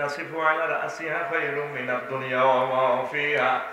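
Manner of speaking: Arabic recitation. Retold or imitated. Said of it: "নবীজি বলে, বলেন".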